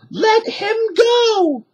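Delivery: high, slow, firm demand; Annie demanding. A narrator's reading. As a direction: order the pirate to let go. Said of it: "she said".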